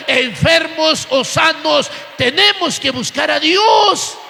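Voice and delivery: forceful preacher driving each phrase home; full-force church sermon delivery; impassioned preaching. Real, not acted. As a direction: preach it with rising fervour, long stressed phrase endings.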